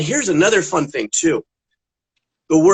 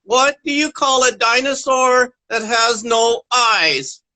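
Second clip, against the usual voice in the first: joke setup; 2 semitones higher, slower than usual. Acted. Telling a joke, big setup.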